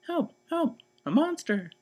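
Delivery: 1 frightened cry. Acted. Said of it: "shouted Baby".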